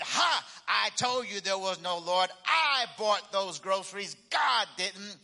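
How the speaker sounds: gloating neighbor. Acted.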